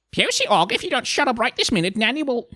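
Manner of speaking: high, loud, hurried threat; scolding grandmother. Acted. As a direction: warn the child to shut up at once. Nanny threatens her screaming grandchild.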